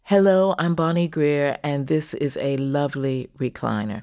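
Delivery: rich, rounded voice-over read; creamy voice-over delivery; performed on request. Shown as a demonstration. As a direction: say it like a voice you show off. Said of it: "could you just say".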